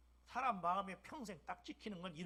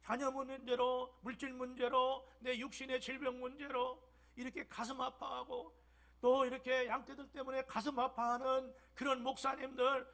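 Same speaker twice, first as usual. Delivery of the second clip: fervent, louder pastor's appeal; preaching at full force; 5 semitones higher, 7 dB louder than usual. Acted. Pastor pleading for suffering ministers, preaching with fervor. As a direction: pour out the list with rising fervor.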